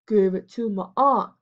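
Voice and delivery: a light sneering echo of Alfred; mocking mimicry. A narrator's reading. Major mocking Alfred's answer in front of the gang, mimicking. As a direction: parrot his words back to mock him. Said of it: "mimicked Major".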